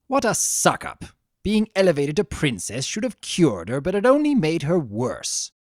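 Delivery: lightly voiced snide chaos spirit; catty Discord. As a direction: gossip with mock disdain.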